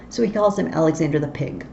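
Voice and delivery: "Pig" as the Welsh Captain's version of Big; mild Welsh "Pig" for Big. Shown as a demonstration. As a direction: say "Pig" with a P where Big is meant. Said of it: "his B's come out as P's".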